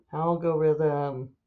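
slow, stretched single word; drawn-out sounding out. Real, not acted. Author jotting a word for her book, slowly sounding it out. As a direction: draw the word out as you write.

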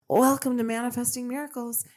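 lightly sweetened welcome, just a touch put on; sweet voice. Host welcoming listeners to her show in a mildly sweet voice. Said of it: "in my sweet voice".

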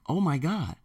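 soft, breathy-free gasp of amazement; imitating a wowed student; student reacting to the ad, amazed. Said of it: "they're gonna be like".

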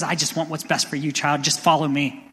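put-on God as a father gently calling his child; tender father. Loving father speaks to his child.

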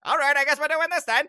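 high, loud, quick skeleton voice; Lord Bote. Acted. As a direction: hurriedly join the fight, theatrically. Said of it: "Lord Bote looks behind them and is like".

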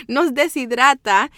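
real laugh breaking into slow, careful words; laughing retry. Real, not acted. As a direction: giggle at yourself and carefully try the word. Laughs at own tricky word.

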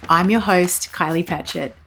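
measured, warm host read over music; slow, deliberate podcast opening; podcast intro voice. Acted.

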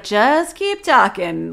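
slow, drawn-out sleazy coaxing; sleazy guy. Retold or imitated. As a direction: imitate a sleazy man, dragging the words. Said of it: "the guy's sleazy as hell too".

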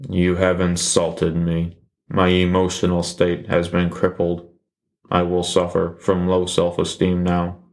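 deadpan mock hurt; flat sarcastic self-pity. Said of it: "That was also sarcasm".

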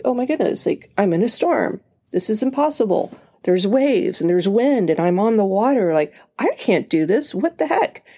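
mock-panicked, pitch climbing high. Peter panicking as the wave crashes, mock fear. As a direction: play Peter losing his nerve on the waves.

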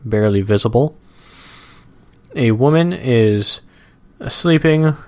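slow, measured reading aloud; comic strip read-aloud. Acted. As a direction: describe the cartoon at an easy pace.

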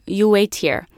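put-on light Italian-accented instruction; hint of an Italian accent; imitated Italian father. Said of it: "this big Italian guy".

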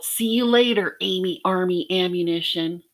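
high, loud schoolyard taunt; sing-song playground teasing; called-out taunt. Retold or imitated. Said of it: "When he called out".

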